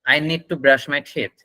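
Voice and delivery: slow, careful teacher demo; slow model sentence. Shown as a demonstration. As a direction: spell it out slowly for students. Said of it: "কথাটা বলুন".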